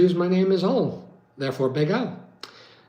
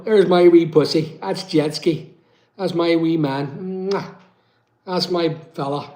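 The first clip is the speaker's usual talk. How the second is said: cooing to cat; slower than usual. Real, not acted. Owner fondly coos to his cat Jetski on camera. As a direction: coo lovingly over the cat.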